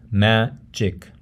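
magic split into ma-gic; syllable by syllable. Shown as a demonstration. Teacher breaks up an English word, syllable by syllable. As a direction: say magic in two separate syllables. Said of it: "how you break up a word".

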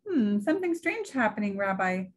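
a hint of a sweet old grandmother; old Baba Brana. Baba Brana fusses over her guest's coat, lightly voiced old woman.

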